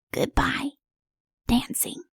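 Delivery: soft, breathy goodbye; sighing farewell. Acted. Wiggs saying goodbye to her dancing, soft and sad. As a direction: let the words fade on a sigh. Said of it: "she gave a little sigh".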